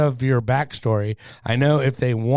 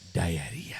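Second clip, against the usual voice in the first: put-on lower, soft Spanish-accented "Diarrhea" with a tapped t; Antonio Banderas accent; 7 semitones lower, 12 dB quieter than usual. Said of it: "Antonio Banderas says diarrhea".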